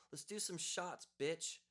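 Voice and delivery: high, loud party call; yelling over music. Retold or imitated. Hipster girl yelling over the music, playful loud call. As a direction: shout it over the club noise. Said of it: "yells over the music".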